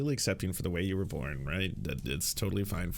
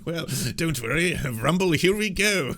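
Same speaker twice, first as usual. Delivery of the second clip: mock excited son; 6 semitones higher, 5 dB louder than usual. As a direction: imitate a smug son cheering himself on. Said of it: "He's like".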